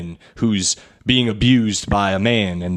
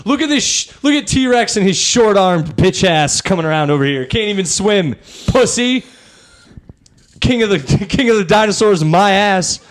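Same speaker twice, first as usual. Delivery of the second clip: high taunting dinosaur voice; 8 semitones higher than usual. Pretend. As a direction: taunt the T-Rex from above. Dinosaurs insulting each other.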